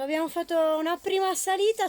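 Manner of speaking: panting after the uphill climb; breathless, rushing the words; out of breath. Real, not acted. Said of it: "scusate il fiatone".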